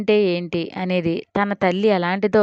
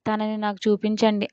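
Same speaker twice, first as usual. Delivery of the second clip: groggy. Acted. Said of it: "అంది మత్తుగా".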